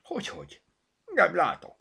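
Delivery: high, plaintive exchange; whimpering. A narrator's reading. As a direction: sound helpless and tearful. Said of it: "pityergett Zorka". (pityergős, magas hangon)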